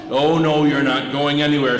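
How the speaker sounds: a mild mock troll threat. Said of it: "said the troll".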